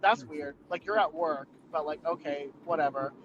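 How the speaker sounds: low, unimpressed retold reaction; low-pitched shrug of a quote; dismissive. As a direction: brush it off, voice dropping away.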